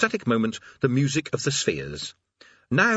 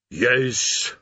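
rasped yes. Acted. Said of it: "it rasped".

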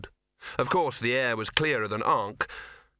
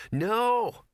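urgent hiss; 11 semitones higher than usual. A narrator's reading. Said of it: "hissed Gaspode".

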